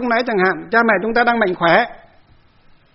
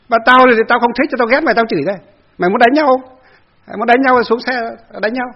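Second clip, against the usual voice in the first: angry threats; 4 semitones higher than usual. Retold or imitated. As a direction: bark the threat to come out and fight. Angry neighbor curses the monk.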